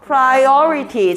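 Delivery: priority drawn out slowly with a falling end; pronunciation demo. Shown as a demonstration. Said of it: "한 번 더".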